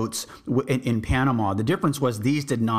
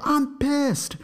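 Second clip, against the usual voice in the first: high Aussie yell, pitched way up; pitched-up mock yell; retold yell. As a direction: bellow it like a drunk Aussie. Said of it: "just yelled".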